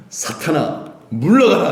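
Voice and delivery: fierce command, loud on the last word; forceful, commanding dismissal; stern rebuke. Acted. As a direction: banish him, surging up on the second word. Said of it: "무섭게 노려보시면서 베드로에게 이르시되".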